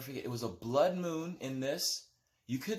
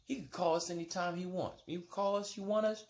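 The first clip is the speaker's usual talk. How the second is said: put-on girlfriend voice; 4 semitones higher than usual. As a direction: lightly voice the ex talking him down. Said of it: "She's like".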